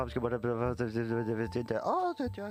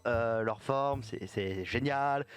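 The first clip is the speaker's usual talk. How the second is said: slow solemn address; much slower than usual. Acted. Player solemnly addresses the god.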